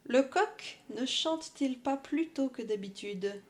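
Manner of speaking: measured poem recital; poem reading. Acted. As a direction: read it like a poem. Reads poem aloud.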